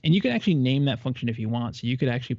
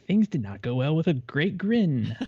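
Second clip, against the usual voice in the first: slow, grinning delivery; smiling voice; 3 semitones higher than usual. Shown as a demonstration. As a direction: say it with a big grin. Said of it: "Can you hear the smile in my voice?".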